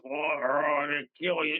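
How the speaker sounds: mock demonic growl; lightly voiced growling demon; growling evil voices. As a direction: imitate a growling spirit's threat. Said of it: "these growling and voices".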